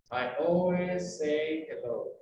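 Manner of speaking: unhurried, joined-up words; slow and fluid. Shown as a demonstration. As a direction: let each word run slowly into the next. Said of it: "puedes decirlo lento y puedes decirlo fluido".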